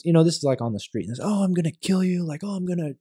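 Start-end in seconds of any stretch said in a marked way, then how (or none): 1.2-3.0 mock yelled threats. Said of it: "they're just yelling at my face".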